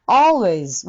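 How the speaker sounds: always with the open vowel like a reversed C; always, the first vowel an open o; teaching always. Shown as a demonstration. Teacher demonstrating always for the class. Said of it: "Cの逆さま".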